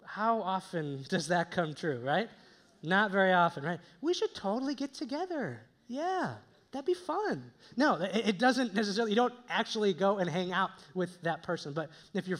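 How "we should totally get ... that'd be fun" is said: high-pitched, noncommittal social pleasantry; breezy empty enthusiasm. Acted. Acquaintance vaguely agreeing to get together sometime, falsely keen. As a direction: toss out a plan you won't keep. Acts out empty promise to meet.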